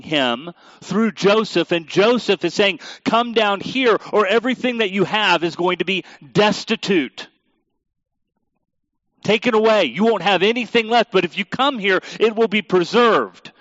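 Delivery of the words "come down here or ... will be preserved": urgent plea. Acted. Joseph urging his father.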